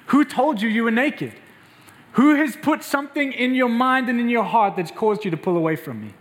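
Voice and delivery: pleading God. Acted. God voiced tenderly in sermon.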